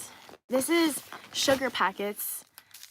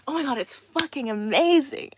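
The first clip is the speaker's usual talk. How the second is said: mock praise; 3 semitones higher, 7 dB louder than usual. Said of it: "then you praise them".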